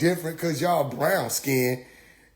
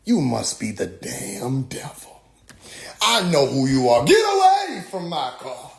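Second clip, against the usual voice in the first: tag. Retold or imitated. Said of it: "they said".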